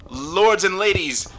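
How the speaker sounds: high, loud, drawn-out arena MC roar; booming announcer impression. Shown as a demonstration. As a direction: stretch FUCHSIA out huge, mock-grand. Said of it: "what he did at the very end".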